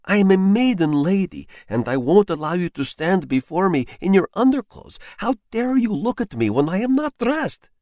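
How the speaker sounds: high, loud, furious ranting; enraged tirade. Acted. Enraged wife rails at her husband in his underclothes, high and loud. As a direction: rail at them as a wronged martyr.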